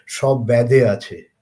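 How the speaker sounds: slow, drawn-out East Bengal accent, mocking; sarcastic East Bengal accent. Lecturer quoting the scientist's jibe at critics, sarcastic East Bengal accent. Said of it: "which he sarcastically used to say".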